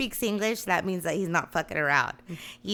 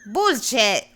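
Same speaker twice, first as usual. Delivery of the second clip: put-on Bullshit said as pʊlʃɛt in a thick Mexican accent; dad's Mexican accent; 3 semitones higher, 3 dB louder, much slower than usual. Daughter imitates her dad's Mexican accent saying Bullshit. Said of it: "thick Mexican accent".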